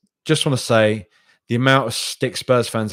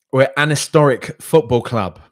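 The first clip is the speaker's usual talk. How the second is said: proud declaration; 5 semitones higher, 8 dB louder than usual. Real, not acted. Proud fan declaring club identity.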